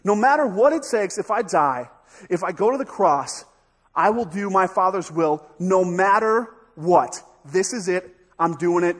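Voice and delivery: loud, emphatic vow; resolute declaration. Acted. Jesus declaring he will do his Father's will, loud resolve. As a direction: declare it forcefully, punching the key words. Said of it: "that's his core value that says".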